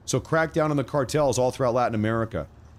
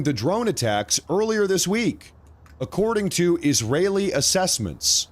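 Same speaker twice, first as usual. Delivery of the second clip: breaking news urgency; 3 semitones higher than usual. Real, not acted.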